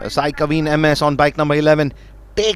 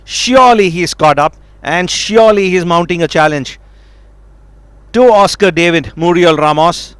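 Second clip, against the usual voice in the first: excited; 2 semitones higher, 4 dB louder than usual. Real, not acted. Calling a challenge live.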